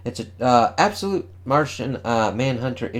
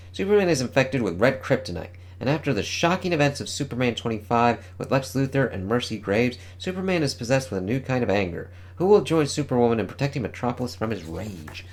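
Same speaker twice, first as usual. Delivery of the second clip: announcer read. Acted. Reads comic solicitation text.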